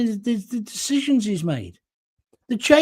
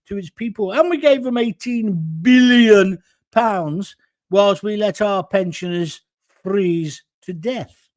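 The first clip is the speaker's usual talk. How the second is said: sarcastic mock boast. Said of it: "You wanna tell people".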